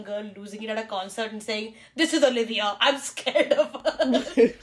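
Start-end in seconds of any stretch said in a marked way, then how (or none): 2.0-4.5 slow, mocking fake fright; hammed-up terror, laughing through it; mock scared. People online mocking Olivia.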